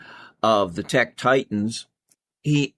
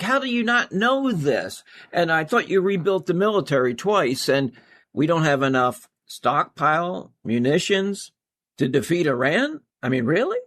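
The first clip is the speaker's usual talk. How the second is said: higher, exasperated boss berating an aide; hammed-up president chewing out his defense secretary; mock Trump rant; 3 semitones higher than usual. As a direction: scold him like a furious boss, pitch up.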